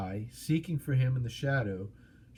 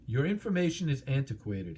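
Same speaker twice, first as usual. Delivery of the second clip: mild snap; 2 semitones higher than usual. Acted. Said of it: "he snapped".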